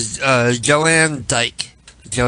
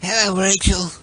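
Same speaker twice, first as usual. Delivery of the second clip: Saul voice; 8 semitones higher than usual. Pretend. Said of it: "I'm gonna do Saul".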